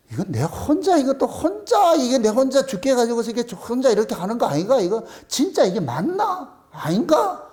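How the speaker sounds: acted-out inner doubt, rising into questions; uneasy self-questioning, voice jumping up; doubting to oneself. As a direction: wonder aloud whether it's all real. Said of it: "의심도 해본다니까".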